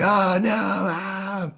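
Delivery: disgusted students. Retold or imitated. Teacher imitating students hearing about snails, high disgusted squeal. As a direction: act out kids grossed out by snails. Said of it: "And they're like".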